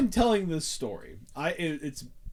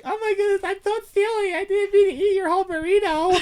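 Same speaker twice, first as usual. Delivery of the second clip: high, louder whiny mock girl voice; mocking Kate; 7 dB louder than usual. Imitating Kate's fake apology in a high whine. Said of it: "she's like".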